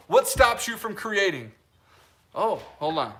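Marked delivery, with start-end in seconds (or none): none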